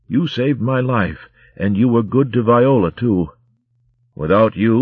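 put-on tender old father figure; gentle old abbot. Old mouse abbot tends Romska.

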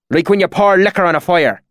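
high country-dialect storyteller; rustic swineherd. A narrator's reading. Swineherd recounting strange lights, in rustic dialect. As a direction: tell it like an earnest bumpkin.

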